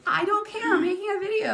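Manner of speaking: frustrated call-out while filming; exasperated insisting. Real, not acted. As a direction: plead over them, exasperated.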